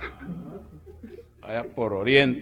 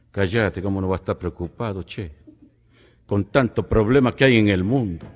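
put-on Argentine accent; 6 dB louder than usual. Second Argentine voiced.

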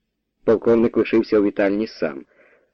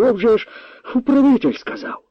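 babbling; 14 semitones higher than usual. A narrator's reading. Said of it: "белькотав".

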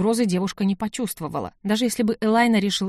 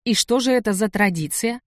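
feigned interest; 3 semitones higher than usual. Acted. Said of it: "спросила со всем интересом".

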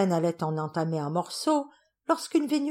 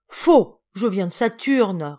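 vexed retort; 7 dB louder, slower than usual. Acted. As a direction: correct him, offended. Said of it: "répliqua la Vénusienne vexée".

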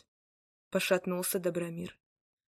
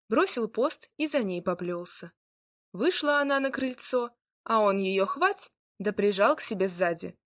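ordinary delivery, nothing marked

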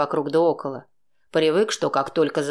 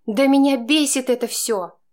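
higher, louder woman's voice, fed up; Chaika, exasperated; irritated woman; 9 semitones higher, 4 dB louder than usual. A narrator's reading. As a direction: spit out her annoyance. Woman snaps in a quarrel.

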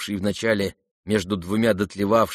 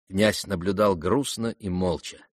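usual speaking voice

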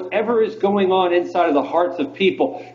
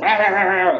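higher-pitched imitation of an angry rant; mock angry ranting; 5 semitones higher than usual. Angry caller to radio host, mock ranting. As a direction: mimic someone going off in gibberish. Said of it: "she went off on me".

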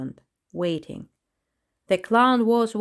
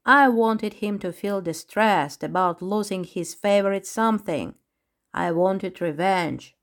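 wicked. Acted. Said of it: "Sparky spoke to Krish so wickedly".

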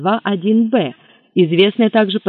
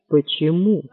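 ordinary delivery

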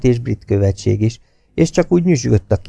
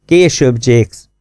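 quick cut-off; 3 semitones higher, 5 dB louder, much slower than usual. A narrator's reading. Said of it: "gyorsan a szavába vágott".

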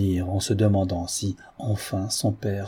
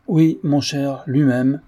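bright, louder and higher with forced cheer; Louis answers his friend, louder, with brave gaiety; 5 semitones higher, 5 dB louder, slower than usual. A narrator's reading. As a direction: put on a brave, cheerful front. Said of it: "avec une gaieté brave".

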